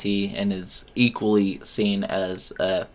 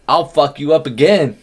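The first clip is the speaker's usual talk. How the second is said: loud, slow, higher menacing threat; 6 semitones higher, 9 dB louder than usual. Retold or imitated. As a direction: growl out a wrestler's promo threat. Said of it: "she was like".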